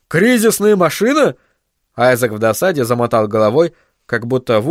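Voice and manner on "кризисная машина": high, incredulous question; astonished exclamation. Acted. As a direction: exclaim it in disbelief. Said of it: "воскликнул он". (изумлённый вопрос)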